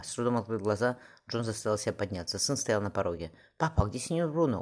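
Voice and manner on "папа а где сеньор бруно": surprised question. A narrator's reading. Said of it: "удивлённо спросил юноша".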